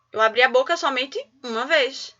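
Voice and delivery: ordinary talk, nothing marked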